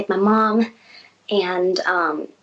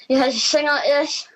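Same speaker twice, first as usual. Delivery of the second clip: singing through a straw; straw in mouth; 5 semitones higher than usual. Shown as a demonstration. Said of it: "You got a straw in your mouth".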